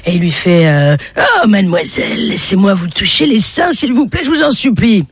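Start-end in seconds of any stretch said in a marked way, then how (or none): 1.2-5.0 high, begging plea; lightly voiced imploring old man; pleading old man. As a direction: beg her with mounting urgency. Old man begs young woman.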